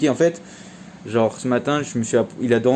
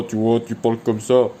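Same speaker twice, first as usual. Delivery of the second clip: a calm, firm voice to settle the dog; firm dog-training voice. Shown as a demonstration. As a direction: speak firmly without shouting. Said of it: "Tu cries pas".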